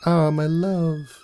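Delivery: a worried wife greeting her husband; wife's relieved cry. A narrator's reading. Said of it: "she cried".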